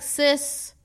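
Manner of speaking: high, loud, exasperated Barbadian accent; Barbadian accent slipping out. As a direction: let the Bajan accent burst out, incredulous and laughing. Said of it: "Sorry, that's my little accent".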